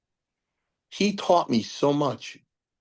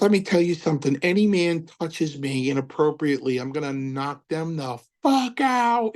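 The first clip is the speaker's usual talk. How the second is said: retold threat; 6 semitones higher than usual. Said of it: "He's screaming".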